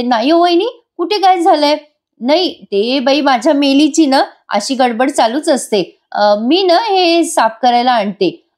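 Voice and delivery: putting on a brave face. Retold or imitated. Wife hiding trouble from sister-in-law, forced casual. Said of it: "काहीही न झाल्यासारखा आविर्भाव आणते".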